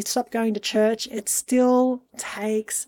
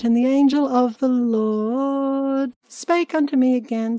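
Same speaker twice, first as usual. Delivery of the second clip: scripture reading. Acted. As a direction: read it like old scripture. Reads scripture aloud.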